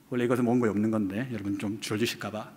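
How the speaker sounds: ordinary delivery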